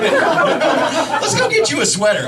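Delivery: high, drawn-out upbeat invitation; lifted, inviting sing-out; completely different energy. Retold or imitated. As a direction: pitch it up like a fun outing. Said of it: "the energy's completely different".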